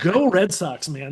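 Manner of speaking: "Go Red Sox" said brightly and meant; sincere cheer. Real, not acted. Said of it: "a thing I never thought I would say".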